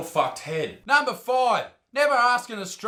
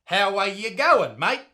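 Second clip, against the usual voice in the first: plain Australian slang. Shown as a demonstration. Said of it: "Or even come up to an Australian and say".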